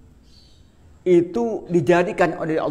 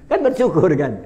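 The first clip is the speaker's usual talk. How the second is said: excited; 2 semitones higher, 6 dB louder than usual. Real, not acted. Preacher's punchline to audience.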